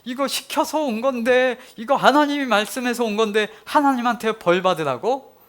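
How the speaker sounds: can't believe he's being blamed; indignant disbelief. Retold or imitated. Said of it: "억울해서 미칠 지경입니다". (억울해서 항변하는 높은 목소리)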